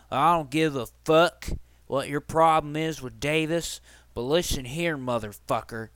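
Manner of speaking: mock-furious brother laying into him; angry brother. Brother calling to complain about the podcast, mock angry voice. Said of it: "and is like this".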